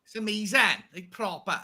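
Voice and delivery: put-on a weak, half-hearted Welsh accent on "It's proper"; barely-there Welsh lilt, mostly his own voice. A joking try at a Welsh accent for the viewers. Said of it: "that's my attempt at a Welsh accent".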